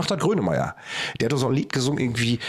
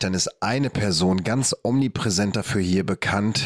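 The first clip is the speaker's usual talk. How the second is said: slightly lowered, measured presenter read; announcer intro; 3 semitones lower than usual. Acted. Host introducing the comedian guest, measured announcer read. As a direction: introduce the guest like a show opener.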